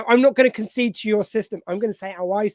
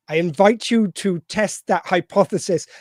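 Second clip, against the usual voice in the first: Picard. Retold or imitated. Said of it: "he's basically talking very posh".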